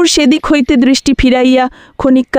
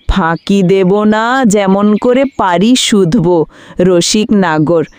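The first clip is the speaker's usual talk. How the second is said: slower, lower sneering repeat of his promise; mocking echo; 4 semitones lower, slower than usual. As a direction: throw his own words back with a smirk. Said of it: "একটু মুচকিয়া হাসিয়া". (ব্যঙ্গ করে ধীরে নিচু গলায় নকল করা)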